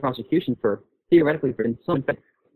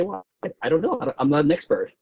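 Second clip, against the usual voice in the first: higher, fumbling mock voice of a cornered libertarian; mock clueless advocate; 5 semitones higher than usual. Podcaster mocking IP advocates who dodge, higher mock hesitation. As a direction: play the dodging expert, pitched up and unsure. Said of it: "They say".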